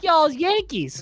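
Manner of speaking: high, drawn-out Southern drawl; Southern lady. Retold or imitated. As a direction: stretch it like an Alabama local. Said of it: "She's like".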